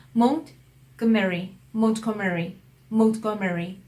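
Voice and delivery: 몬트고메리 as 몬트 plus 고메리; separated native pronunciation. Shown as a demonstration. Teacher drilling the correct station name, separated stress. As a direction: keep the t in 몬트, then stress 고메리. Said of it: "따로 분리시켜서".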